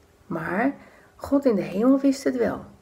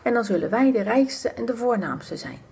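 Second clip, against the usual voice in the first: gloating whisper; 3 semitones higher than usual. Acted. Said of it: "ze fluisteren elkaar".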